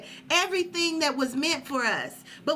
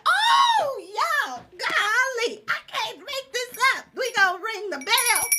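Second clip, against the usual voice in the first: real astonished exclamation, pitched way up; excited outburst; 9 semitones higher, 4 dB louder than usual. Real, not acted. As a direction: burst out high, drawing out the first words. Sudden outburst at a coincidence.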